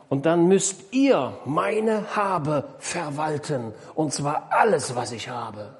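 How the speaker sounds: slow, weighty instruction, lightly acted; lightly voiced master, stretching the words; instructing master. Master entrusting all his goods to his servants, slow instruction.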